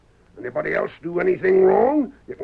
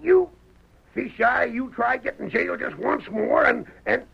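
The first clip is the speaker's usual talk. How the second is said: sputtering; 4 semitones higher than usual. Acted. Sheriff sputtering at Fish Eye.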